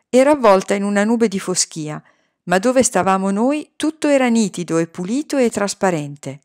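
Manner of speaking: ordinary delivery, nothing marked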